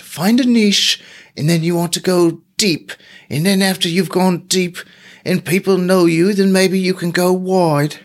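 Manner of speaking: hammed-up British marketing guru with a slipping accent; bad British accent. Mocking marketing advice for his listeners in a bad British accent. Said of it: "That was a really bad accent right at the end".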